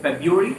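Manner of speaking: February said slowly, each syllable clear, feb-roo-ary; careful pronunciation. Shown as a demonstration. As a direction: sound out February carefully for learners. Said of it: "इस word को आप ध्यान से सुनिए".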